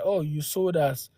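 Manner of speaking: quiet mocking accusation; a hushed, mocking impression of the accusers; soft imitating of the accusers; mock accusing quote. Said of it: "these black Americans say that".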